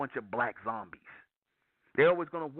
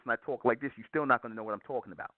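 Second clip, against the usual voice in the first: slightly lowered, calmer speaking voice; 3 semitones lower, faster than usual. Shown as a demonstration. Preacher showing listeners that volume isn't the problem, slightly lowered voice. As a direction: bring the voice down a little. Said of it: "even if I lowered my voice".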